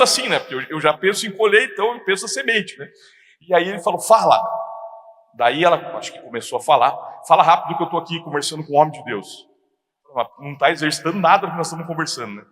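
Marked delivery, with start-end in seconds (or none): 4.0-4.4 loud, curt phone answer; gruff phone greeting. Retold or imitated. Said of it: "você é um grosso". 7.3-9.5 fast, impatient husband on the phone; hurried, brusque. Retold or imitated. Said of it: "tem que falar rápido".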